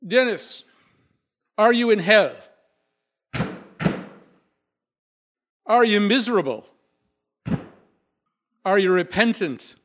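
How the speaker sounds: high, loud, solemn questions with long pauses; Snowbird questioning the ghost. Acted. Snowbird questioning dead Dennis, high, loud and solemn. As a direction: interrogate the dead man like a seance, earnest. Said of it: "And then he says".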